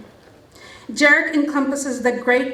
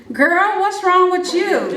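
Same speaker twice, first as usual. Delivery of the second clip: higher, slower mock mom asking; startled mom; 6 semitones higher, 3 dB louder, slower than usual. Mom startled by her daughter's scream, higher and slower. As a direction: play the startled mother, drawn out. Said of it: "my mom saying".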